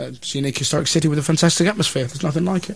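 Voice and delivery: rattled off fast like a rehearsed line; mock man in the street. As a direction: parrot the slogan quickly. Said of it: "what do you think of Norwich".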